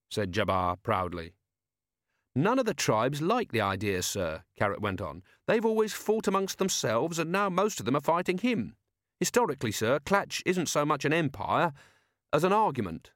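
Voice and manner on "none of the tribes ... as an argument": put-on higher, earnest young officer; eager polite young watchman; Carrot's voice. Young officer warning his commander, higher and earnest.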